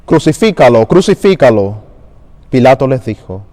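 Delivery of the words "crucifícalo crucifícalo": crowd shouting. Acted. Priests to Pilate, demanding crucifixion, moderate shout. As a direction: cry it out like a mob calling for death.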